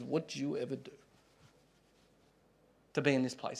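the Lord gently rebuking a complainer; quiet, tender reproach; loving firm rebuke. Acted. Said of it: "the loving firmness of the rebuke".

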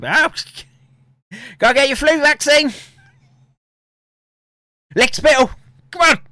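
high, loud sneering villain; mocking villain voice. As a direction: shout it like a cartoon schemer. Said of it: "telling them".

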